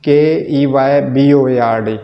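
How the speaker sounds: slow, letter by letter; deliberate dictation of the letters; spelling out. Shown as a demonstration. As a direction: spell it out one letter at a time. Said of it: "keyboard की spelling गलत है".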